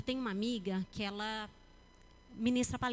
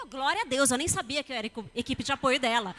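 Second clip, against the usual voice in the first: surprised; 6 dB louder than usual. Retold or imitated.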